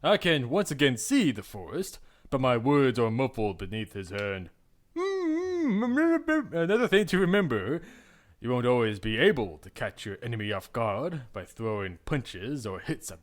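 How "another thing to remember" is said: higher, slow, measured mentor voice; stern mentor. Acted. Claude lecturing the heroine during training, slow and measured. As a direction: lay down the lesson slowly.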